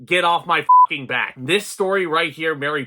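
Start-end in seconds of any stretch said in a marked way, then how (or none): 0.0-1.3 put-on a rough Cockney accent; Bert's Cockney. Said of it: "my Cockney accent probably wasn't the greatest at the top of this video".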